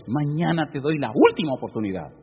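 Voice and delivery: retelling a despairing woman's prayer in a lifted voice; desperate prayer. Retold or imitated. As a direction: voice her last plea to God, rising as it goes. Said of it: "Y le dije a Dios".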